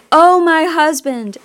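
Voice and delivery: loud, high grieving wail; crying out in grief. Retold or imitated. Grieving goddess cries out for her husband, wailing. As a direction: let the grief burst out on Oh. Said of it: "she's crying out".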